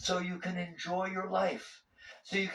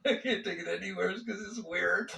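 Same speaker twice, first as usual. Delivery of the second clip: amused chuckle; 3 semitones higher than usual. Real, not acted. Speaker jokes about his weird psyche, chuckling. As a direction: say it through a light laugh.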